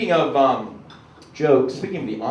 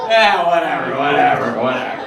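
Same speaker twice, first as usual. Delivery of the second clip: Amish man impression; 3 dB louder than usual. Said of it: "my impression of an Amish man".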